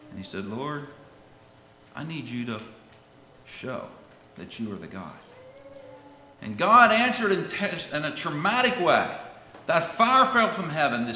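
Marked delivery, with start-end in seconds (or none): 0.4-5.2 halting, subdued prayer with pauses; retold humble prayer. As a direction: pray it low and measured, sinking softer at the end. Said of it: "Elijah bowed his head".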